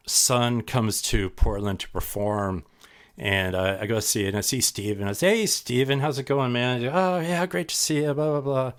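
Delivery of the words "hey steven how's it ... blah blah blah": breezy, higher-pitched hello; friendly greeting. Retold or imitated. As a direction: act out a casual, chummy catch-up. Acted greeting between old acquaintances.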